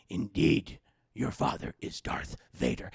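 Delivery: low, hoarse, breathy Yoda after a sigh; heavy confession in a croak. Retold or imitated. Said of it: "He's like".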